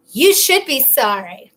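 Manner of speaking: slow, imitated motherly scolding; mom's attitude. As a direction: scold slowly like an offended mom. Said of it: "I could always tell my mom's attitude".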